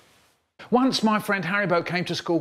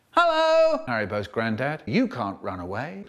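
menacing hello; 5 semitones lower than usual. Acted. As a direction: greet him like a cheerful killer. Menacing greeting to the granddad.

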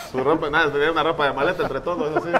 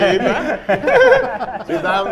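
imitating the waiter; 7 semitones higher, 6 dB louder, much slower than usual. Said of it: "me dice".

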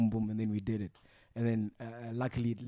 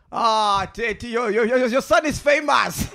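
higher, louder, laughing boast; excited boast; 8 semitones higher, 8 dB louder than usual. Retold or imitated. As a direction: show off to your new dad. Chili excited at new father.

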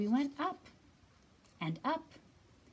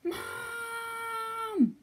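much higher, loud call; child shouting Mom; 12 semitones higher, 8 dB louder than usual. Acted. Story child calling out for mom, high and loud. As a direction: yell for mom in the dark.

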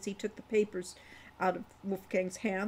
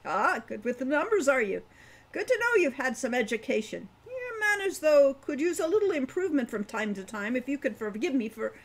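put-on higher, louder old dwarf chiding the boy; old dwarf, needling; 4 semitones higher, 4 dB louder than usual. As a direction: tease then scold like a grumpy elder. Wolfgang teasing, lecturing Hawk.

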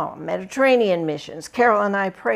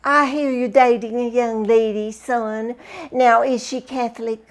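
higher and louder, a prying mom on the phone; higher, louder imitation of a curious mom; mother's voice; 5 semitones higher, 7 dB louder than usual. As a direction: sound like a mother quizzing her son about his girlfriend. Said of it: "it would be".

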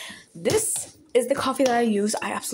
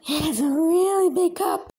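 laughing; 6 semitones higher, slower than usual. Real, not acted. Laughing at the big cup.

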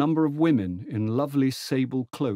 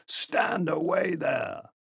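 imagined station yell, higher and slow; mock yell; 8 semitones higher, much slower than usual. Station staff warn a man off the moving train, mock yell. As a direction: call it out like a porter's warning. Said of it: "half the station would have been yelling".

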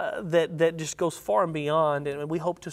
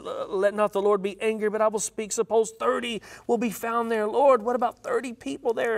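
growing plea; 5 semitones higher than usual. Acted. Abraham pleading for thirty.

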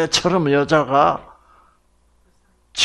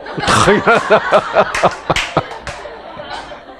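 high wheezing laughter; 숨넘어가는 웃음; breathy laugh; 5 semitones higher than usual. Real, not acted. Laughing at own joke.

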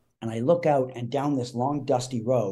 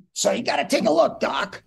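high, loud, quick cue line; punchy Mickey Rooney; 12 semitones higher, 4 dB louder than usual. Retold or imitated. Mickey ends his speech to his co-star, high and loud. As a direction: fire it out high and leave it hanging. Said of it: "he just goes".

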